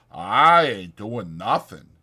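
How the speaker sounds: a big man insisting he's harmless; Lenny pleading. A narrator's reading. Lenny pleading innocence to Crooks.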